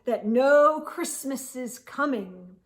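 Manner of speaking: a hint of a smug villain picturing the crying; gleeful Grinch gloating. The Grinch gloating to himself about the Whos, a light smug voice. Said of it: "He was grinishly humming".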